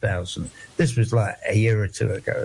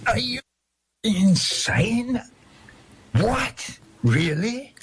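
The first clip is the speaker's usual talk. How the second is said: much higher, disbelieving cries of what; shocked outburst at an absurd law; incredulous outrage; 9 semitones higher, slower than usual. Real, not acted.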